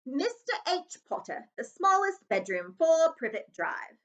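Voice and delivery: high, slow, loud read-out. A narrator's reading. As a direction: call the address out slowly. Dudley reading address aloud.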